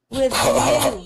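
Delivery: little schoolboy. Acted. Boy naming his teacher as his love, high boy voice. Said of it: "he said".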